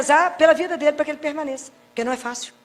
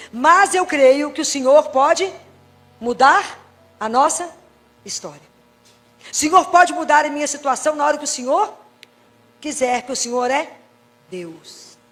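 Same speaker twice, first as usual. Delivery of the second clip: praying with conviction; confident prayer. Acted. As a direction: proclaim trust slowly and firmly. Voicing prayer of trust.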